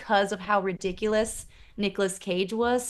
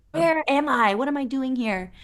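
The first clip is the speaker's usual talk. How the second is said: higher, half-acted panicked questions; mock panic; 4 semitones higher than usual. Peggy waking in her old room, mock panic. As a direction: imitate a lost woman panicking lightly. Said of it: "she's freaking the hell out".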